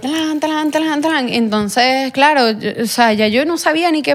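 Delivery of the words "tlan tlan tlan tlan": imitated pistol blows. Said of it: "me dijo".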